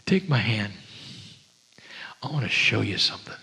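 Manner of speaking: soft, ending in a fast whisper; quiet invitation. Pretend. Love quietly leads the listener outside, whispering. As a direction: whisper it like a secret. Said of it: "love would be quiet and say".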